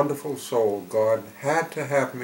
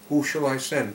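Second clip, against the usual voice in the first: "Who shall I send" put as an open question, raised pitch; 3 semitones higher, 3 dB louder than usual. Acted. God to those with free will, asking "Who shall I send" questioningly. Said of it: "So God says it as a question".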